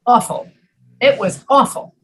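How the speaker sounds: awful with a rounded aw; East Coast pronunciation. Shown as a demonstration. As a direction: say awful as AW-ful. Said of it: "on the East Coast is pronounced".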